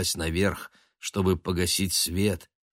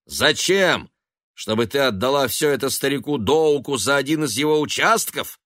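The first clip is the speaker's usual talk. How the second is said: sneering; 7 semitones higher, 5 dB louder than usual. Acted. Son mocking mother's thrift.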